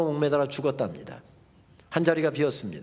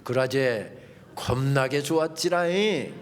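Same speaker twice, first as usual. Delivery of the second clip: Jeolla dialect; 5 semitones lower, slower than usual. Retold or imitated. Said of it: "분명히 전라도 말로 넣었을 것입니다".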